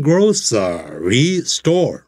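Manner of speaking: grocery store said slowly as mistaken "gro-ce-ry"; wrong pronunciation. Shown as a demonstration. Teacher showing how not to say it. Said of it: "它不念grocery store".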